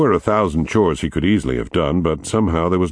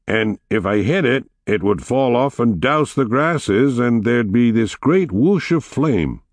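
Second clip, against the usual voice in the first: excited storytelling; 7 semitones higher than usual. A narrator's reading. Teen boy telling girls a story.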